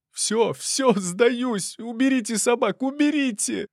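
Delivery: high, pleading cry of a caught intruder; desperate cry. Acted. Intruder caught by dogs begs soldiers, high panicked plea. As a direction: beg them to call off the dogs in a high panicked voice. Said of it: "отчаянный вопль".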